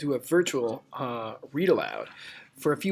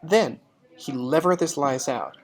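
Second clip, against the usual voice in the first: story narration; 4 dB louder than usual. Acted. Reads story narration to class.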